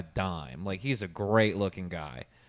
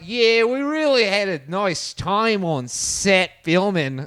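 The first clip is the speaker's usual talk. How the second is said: mocking Australian accent, higher and louder; bad Australian accent; 10 semitones higher, 10 dB louder, slower than usual. Mocking an actor's interview voice: exaggerated Australian accent. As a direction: ham up a clumsy Australian accent, slow. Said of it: "horrible Australian accent".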